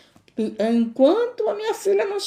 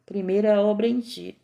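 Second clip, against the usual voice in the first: calm divine reassurance; 2 semitones lower than usual. Retold or imitated. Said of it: "E o Senhor disse".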